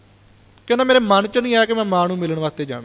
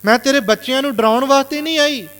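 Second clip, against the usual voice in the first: emotional plea; 6 semitones higher than usual. Retold or imitated. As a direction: say it again, hurt and pleading. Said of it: "ਭਾਵੁਕ ਹੋ ਕੇ ਸ਼ਬਦ ਬੋਲੇ". (ਦੁਖੀ ਮਾਂ ਦਾ ਮੁੜ ਤਰਲਾ)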